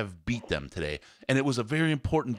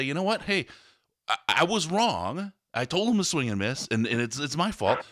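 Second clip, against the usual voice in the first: mock apology; 4 semitones higher than usual. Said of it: "take it and say".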